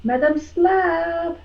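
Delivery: high, drawn-out singsong call; long high call at ordinary volume. Pretend. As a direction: call for a companion, stretching the name out. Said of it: "start calling out for Bitch Slap".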